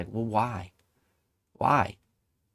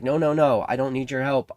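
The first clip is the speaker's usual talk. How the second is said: loud emphatic no, no, no, louder and higher; stubborn refusal; 3 semitones higher, 6 dB louder than usual. Acted. Stranded man shouting up at the yacht, stubborn refusal. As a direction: push the help away with conviction.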